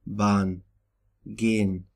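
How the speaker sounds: Bahn and gehen with long vowels, H silent; long vowels before H. Shown as a demonstration. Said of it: "used to make vowels long".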